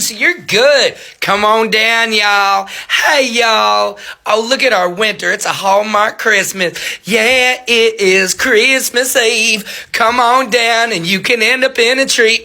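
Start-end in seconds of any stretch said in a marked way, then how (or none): 1.2-12.4 lightly voiced folksy town inviter; mock welcome. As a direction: draw out the hearty invitation a little, mockingly. Mimics town's folksy Christmas invitation.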